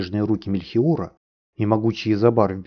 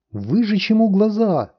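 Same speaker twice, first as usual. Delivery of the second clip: high, slow, drawn-out yell; 12 semitones higher, 4 dB louder than usual. A narrator's reading. Dry wind demanding the master's punishment, slow high yell. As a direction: scream the sentence at the prisoner. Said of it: "завопил Суховей".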